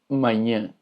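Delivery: Mañana cut to ma-nyã, nasal ending. Shown as a demonstration. Teacher demonstrates the tilde, Mañana as nasal manhã. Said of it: "se pronuncia de una manera nasal".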